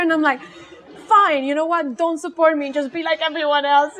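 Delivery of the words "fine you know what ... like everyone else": mock-indignant, raised pitch; a touch of Italian family drama; retold dramatic shouting. Daughter yells back at unsupportive mom, hammed-up indignation. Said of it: "like, shouting at her".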